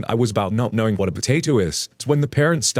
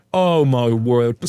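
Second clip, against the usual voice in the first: slow, louder amused exclamation; laughing disbelief; 3 dB louder, much slower than usual. Real, not acted. Narrator reacting to the potato story, laughing in disbelief. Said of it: "sorry to laugh at you".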